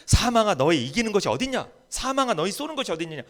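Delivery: steady loud quotation; firm quote. Retold or imitated. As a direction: say it firmly, not yet full force. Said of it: "바울이 뭐라고 이야기해?".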